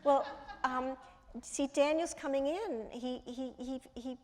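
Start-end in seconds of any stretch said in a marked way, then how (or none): 0.0-2.9 higher-pitched office caller breaking awkward news; raised voice on a dismayed "oh, no"; retold apologetic caller. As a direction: imitate a caller realizing the oversight. Acting out the office caller's embarrassment.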